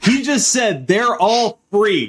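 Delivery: high, drawn-out wrestling promo callout. Pretend. Host seizes on guest's free-money remark, wrestling voice. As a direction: put on a wrestler calling out the crowd. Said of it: "do your wrestling voice".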